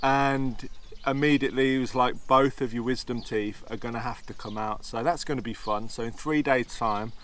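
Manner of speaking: slurred speech from tooth infection; slushy s, talking through pain; lisp. Real, not acted. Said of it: "It sounds like I'm slurring".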